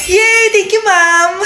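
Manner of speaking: put-on high, girlish yay of glee; delighted cheer. Favoured student thanks teacher for permission, delighted. Student allowed to leave class.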